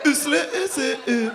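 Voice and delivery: a touch of Sims gibberish; imitating a Sim. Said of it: "you sound like one of the Sims".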